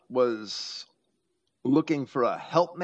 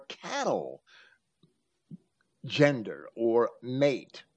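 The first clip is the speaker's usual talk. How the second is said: slow words around a stifled burp; talking through a coffee burp; holding back a burp; 2 semitones lower, slower than usual. Real, not acted. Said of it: "I'm burping because I'm drinking coffee".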